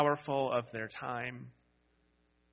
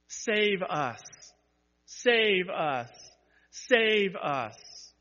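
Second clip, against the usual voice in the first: pleading cry; 5 semitones higher, 4 dB louder, much slower than usual. Acted.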